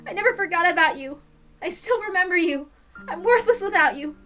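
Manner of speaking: put-on girl confessing to her lost love, tearful; tearful apology. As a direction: plead through the tears. Shion alone, apologizing to Satoshi.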